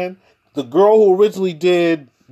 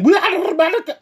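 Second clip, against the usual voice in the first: high mocking imitation of a proud claim; lightly hammed-up mock voice; 12 semitones higher, faster than usual. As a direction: parody them, pitched way up. Mocking repeat.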